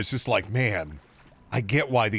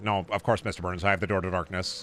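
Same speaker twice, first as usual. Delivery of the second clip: Smithers; 4 semitones lower than usual. Acted. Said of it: "Burns ordering Smithers to".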